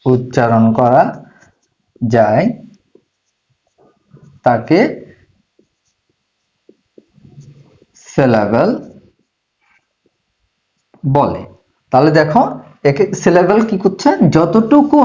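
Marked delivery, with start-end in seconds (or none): 0.1-11.4 slow, lower dictation with long pauses. Real, not acted. Teacher dictating the syllable definition to students, slow dictation. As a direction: dictate word by word for note-taking.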